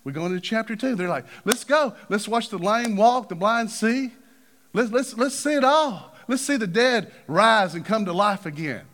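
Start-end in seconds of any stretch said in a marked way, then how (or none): 1.5-8.9 excited disciples. Retold or imitated. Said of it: "they're excited".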